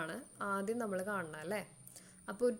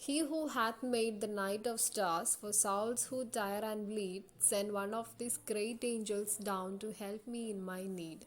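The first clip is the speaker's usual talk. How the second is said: poem recitation; much slower than usual. Shown as a demonstration. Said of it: "ഒരു എക്സാമ്പിളാണ്".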